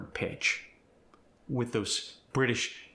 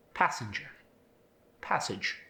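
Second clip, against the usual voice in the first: British accent. Shown as a demonstration. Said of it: "don't get that ah sound".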